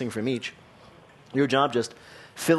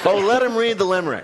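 laughing; 5 semitones higher, 4 dB louder, faster than usual. Real, not acted. Host laughing, urging to continue.

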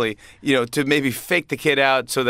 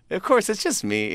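Grover reveal; 9 semitones higher than usual. Retold or imitated. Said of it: "And he goes".

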